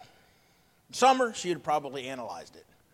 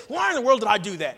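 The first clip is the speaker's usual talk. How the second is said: frustrated at self; 5 semitones higher, 7 dB louder, faster than usual. Retold or imitated. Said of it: "I am frustrated at myself".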